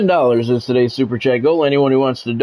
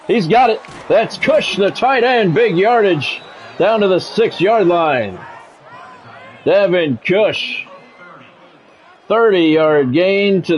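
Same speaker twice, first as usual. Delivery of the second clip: higher, rising announcer call, slowing on the gain; excited big-play call; 5 semitones higher, slower than usual. Acted. Streamer calling a big catch in his game, excited announcer. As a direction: sell the long catch to the crowd.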